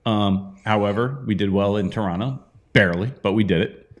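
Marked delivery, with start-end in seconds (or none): 2.7-3.9 burping mid-sentence; words pushed through a burp; fizzy drink burp. Real, not acted. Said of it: "Sorry, burping".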